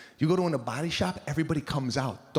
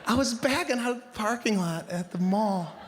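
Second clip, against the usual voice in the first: a hint of a breezy wife, laughing through it; lightly voiced wife, giggling; wife's cheerful confession; 5 semitones higher than usual. Wife cheerfully confessing a car scrape, laughing. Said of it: "She's like".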